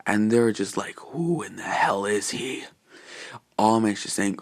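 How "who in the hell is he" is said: hushed, slow baffled whisper. Acted. Characters puzzling over the stranger, whispered. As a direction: breathe it out, puzzled.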